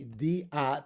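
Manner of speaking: "D A" said as "dee, ah"; two separate syllables. Shown as a demonstration. Teacher breaking up the word, "D A" as two syllables. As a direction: split "D A" into two distinct beats. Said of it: "two separate syllables".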